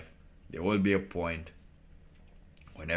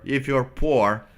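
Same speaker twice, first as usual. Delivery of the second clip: laughing; 5 semitones higher, 10 dB louder than usual. Acted. Joking to viewers that the poor must work, laughing. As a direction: chuckle out the joke about poverty.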